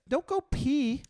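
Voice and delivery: high, loud exasperated yelling; angry yelling. Real, not acted. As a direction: yell at him to clean up. Yelling at friend over mess.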